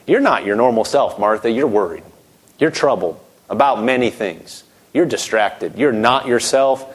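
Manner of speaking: a tender rebuke from Jesus; kind gentle Jesus. Acted. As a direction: soothe her like a loving teacher. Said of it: "very kindly, with love in his eyes".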